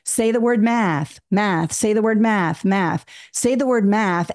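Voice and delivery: slow call-and-echo repetition of a prompt; lightly voiced classroom drill, prompt then echo; teacher drill. Shown as a demonstration. Teacher and students trade the word, slow drilling. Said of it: "if I said".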